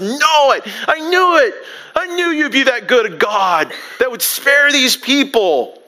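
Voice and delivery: a prophet grumbling that God is too good; Jonah's bitter outburst. Acted. Preacher voicing Jonah resenting God's mercy, mock indignant.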